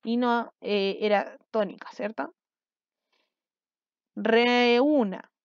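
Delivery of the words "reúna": REÚNA drawn out in one connected run, reee-úna; teacher slowly sounding out REÚNA, vowels held; stretched syllables. Shown as a demonstration. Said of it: "Tres sílabas".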